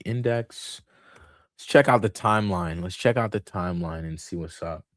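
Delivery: talking with the hiccups. Real, not acted. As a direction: speak between hiccups. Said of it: "I think I got the hiccups".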